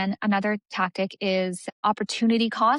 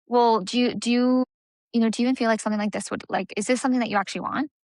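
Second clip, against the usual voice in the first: puzzled questioning, a bit faster; confused, curious; faster than usual. Shown as a demonstration. Coach showing a client a confused curious question. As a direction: sound genuinely unsure and curious. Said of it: "you could also do confused or confusing".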